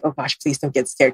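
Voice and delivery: calm her down gently; soothing. Retold or imitated. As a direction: reader soothing a client about to panic. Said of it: "I was like".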